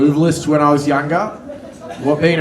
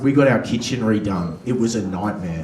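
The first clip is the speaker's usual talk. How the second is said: complaining rich housewife; 5 semitones lower, 4 dB quieter than usual. Acted. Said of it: "rich enough housewife".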